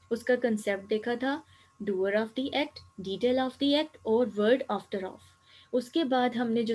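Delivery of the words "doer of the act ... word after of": slow spelled-out terms. Shown as a demonstration. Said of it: "پہلے ہم نے سیکھے تھے".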